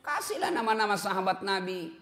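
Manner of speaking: rousing sermon delivery; preaching. Acted. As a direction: preach it out to the congregation. Preaching with rising force.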